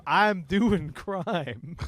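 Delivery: very slow, drawn-out words; mock announcement. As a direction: stretch it out like a brazen subject line. Voicing a blatant email subject line.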